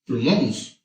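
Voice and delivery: Plumons again, the mistaken plural with a bare S added; Plumons, plu-MONS, just an S tacked onto plumón; wrong plural. Shown as a demonstration. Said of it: "no a todos los sustantivos le vas a agregar la letra S".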